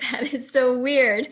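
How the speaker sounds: this is so strange to me; baffled at the aunt's odd words at the cemetery; incredulous. Retold or imitated. Reacting to aunt's odd remark.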